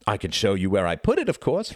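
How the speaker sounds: bright, lifted, innocent-sounding reply. A narrator's reading. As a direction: answer breezily as a cheeky boy. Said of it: "replied Reginald brightly".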